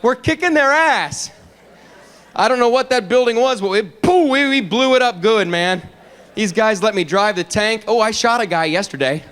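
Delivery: high, whooping excitement; gung-ho reporter. Retold or imitated. Fox reporter boasting from the war, high gleeful excitement. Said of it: "Then you click it over to Fox".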